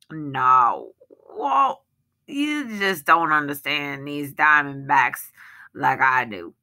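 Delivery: a touch of lofty condescension; superior tone. Acted. Sykes brags to the villagers, mildly superior. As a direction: talk down to them, mildly smug. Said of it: "in a superior tone of voice".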